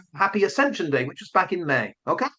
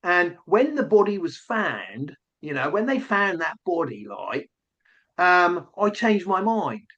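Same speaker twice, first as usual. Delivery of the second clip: put-on lightly done Essex accent, halting; mock Essex accent, stumbling over words. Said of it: "if I'm gonna do the Essex accent".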